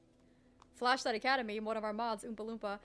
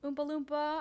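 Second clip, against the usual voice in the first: mild, careful wake-up call; gentle wake-up; 3 semitones higher, much slower than usual. Retold or imitated. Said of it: "I go gently".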